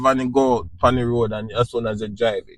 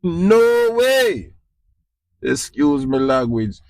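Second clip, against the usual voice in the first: much higher, exclaimed denial; emphatic no way; 8 semitones higher, slower than usual. Real, not acted. Swapping hell no for a cleaner no way, exclaimed high. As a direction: fling out the no way high and bright with disbelief.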